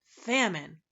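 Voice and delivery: loud anguished roar. A narrator's reading. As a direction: bellow the word in despair. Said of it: "roared the anguished humbug".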